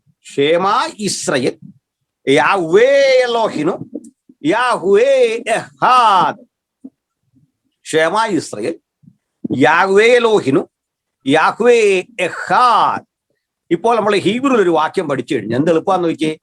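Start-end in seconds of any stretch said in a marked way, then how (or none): 0.1-6.9 slow recitation. Shown as a demonstration. Teacher reciting the Hebrew verse for students, slow and chanted. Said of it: "അതൊന്ന് നോക്കിയട്ടെ". 7.8-13.1 calm, slow recital of the verse; slow recitation. Shown as a demonstration. Teacher repeating the Shema slowly for students to memorise. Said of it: "അതൊന്ന് നോക്കിയട്ടെ".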